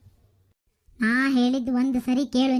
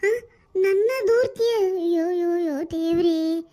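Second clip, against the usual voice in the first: hurt outburst, raised in bursts; indignant scolding; 2 semitones higher than usual. Acted. Mother upbraids her daughter over a betrayal, indignant. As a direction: cry out in dismay at being betrayed.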